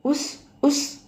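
two short, high shooing sounds; quick sibilant "uss, uss"; shooing noise. A narrator's reading. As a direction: shoo an insect off the clock. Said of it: "అంటూ అరిచాడు".

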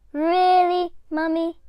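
high, loud delighted disbelief; can it really be true; amazed little girl. A narrator's reading. Little Diane amazed by what mum says.

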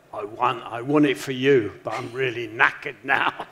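put-on light Manx accent, tired; a hint of a Manx accent, worn out; Cav Manx accent. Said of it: "Was that your Manx accent there?".

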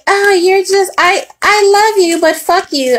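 lightly hammed-up gushing impression; mock flirty voice. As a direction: imitate a fake admirer with a sneer. Mocking someone's flirt then insult.

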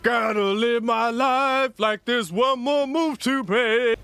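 slow, drawn-out dreamy recital; mock sing-song quote. Mocking teammate Deja's lines, slow dreamy recital. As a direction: imitate her like a slow inspirational verse. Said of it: "Deja over here like".

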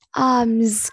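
"Arms" with a clearly buzzed final z; teacher's careful "Arms", voiced z at the end. Shown as a demonstration. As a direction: model "Arms", ending on z. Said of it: "cũng là âm giờ".

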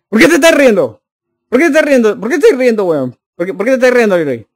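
indignant, repeated challenge to the audience; mock indignation. Real, not acted. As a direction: demand to know what's so funny. Scolds chat for laughing at him.

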